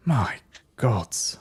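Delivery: hushed awe falling into a whisper; awestruck. Acted. Brother Callum watching from behind, awestruck. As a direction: breathe it out in wonder, ending whispered. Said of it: "his face is just in awe".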